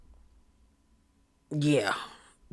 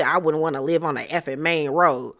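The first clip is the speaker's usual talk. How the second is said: mocking Dorit; 5 semitones lower, 5 dB quieter than usual. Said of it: "how dare you say".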